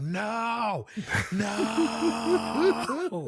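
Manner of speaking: a mild mock yell of no at the screen; retold scream. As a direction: replay the scream at the TV half laughing. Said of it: "I was screaming on my television".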